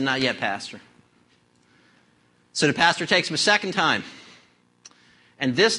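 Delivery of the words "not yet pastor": low, soft lightly voiced drunk; drunk man. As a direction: mumble it low like the old drunk. Drunk answering the pastor.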